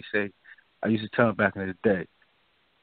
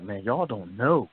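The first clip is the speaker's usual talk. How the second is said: slow, lower Middle Eastern accent, lightly put on; imitating a Middle Eastern accent; 3 semitones lower, slower than usual. Middle Eastern man at a bar telling the speaker, in a light Middle Eastern accent. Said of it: "you could hear the accent in his voice".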